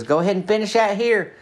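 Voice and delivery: put-on high, sugary old-lady invitation; Imogene's sweet voice. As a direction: chirp it up high like a doting hostess. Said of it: "She goes".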